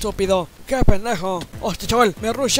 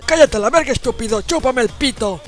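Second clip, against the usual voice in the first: put-on angry old man snap. Grandpa yells at grandson.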